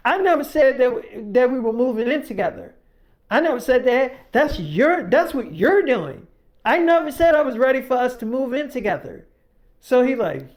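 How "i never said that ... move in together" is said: higher-pitched, mildly angry pushback; imitated argument, insistent and raised; retold heated denial. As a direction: act out firmly rejecting the accusation. Acted girlfriend firmly denying in quarrel.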